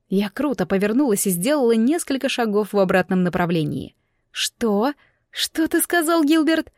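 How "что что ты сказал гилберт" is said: high, disbelieving question; stunned question. A narrator's reading. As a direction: ask as if you cannot believe your ears. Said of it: "прошептала изумлённо". (изумлённый вопрос, высоко и недоверчиво)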